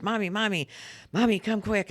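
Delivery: put-on high child's voice calling for mommy; a little boy calling out from bed. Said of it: "he goes".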